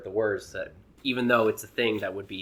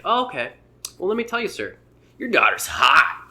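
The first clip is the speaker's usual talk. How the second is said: higher, sly and mock-courteous, slowing on the final words; mock-polite comedian; 9 semitones higher, 6 dB louder than usual. Comedian's punchline to protester.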